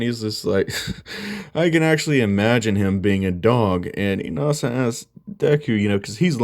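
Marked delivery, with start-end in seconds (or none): 1.1-3.9 retold amusement, a small laugh first. Deku laughing as he pictures his rival as a dog, mock amused. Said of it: "he just starts laughing".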